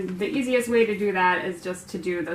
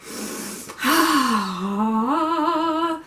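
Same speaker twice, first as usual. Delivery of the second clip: long exasperated sigh; 6 semitones higher than usual. Real, not acted. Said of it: "What is wrong with me today?".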